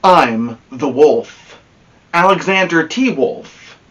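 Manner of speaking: a hint of a smug wolf telling his side; wolf narrator. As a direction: tell it as the misunderstood wolf, chummy and sure of himself.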